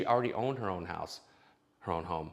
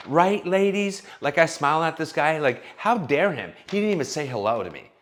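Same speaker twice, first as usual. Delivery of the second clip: hammed-up indignant TikTok woman, a touch higher; mocking a woman ranting to her ladies on TikTok, higher and louder; 5 semitones higher, 4 dB louder than usual. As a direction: play an outraged influencer addressing her followers. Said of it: "Then she'll go on to TikTok".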